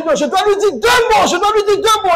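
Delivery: high, loud indignant insistence; mock angry sister. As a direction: play the fed-up sister. Quoting angry church sister.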